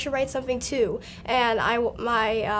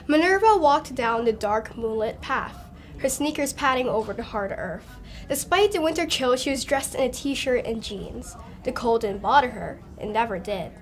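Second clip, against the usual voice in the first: expressive read-aloud book voice; prologue narration; 2 semitones higher than usual. A narrator's reading. Young author reads a prologue, story narration.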